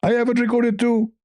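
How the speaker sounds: high mock caller retort; Zakir Naik. Caller counters his rival's recording, high-pitched impression. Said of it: "Zakir Naik, it's recorded".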